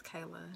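"Kayla" said KAY-luh, in two syllables; "Kayla" as KAY-luh, the I of its spelling left silent. Shown as a demonstration. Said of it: "The I is silent".

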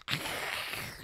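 harsh voiceless rasping noise; throaty hiss standing in for noise; imitated noise. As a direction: make a rough background-racket noise.

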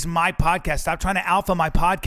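loud, indignant outburst; angry. Real, not acted. Host warns guest off his podcast, angry. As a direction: lay down the law, loud and irritated.

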